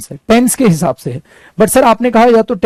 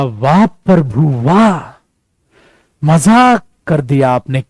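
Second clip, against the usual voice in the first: lower, sarcastic wah prabhu; mock sarcasm; 4 semitones lower, much slower than usual. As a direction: tease the student with fake praise. Teacher's sarcastic reply. (व्यंग्य भरी वाह)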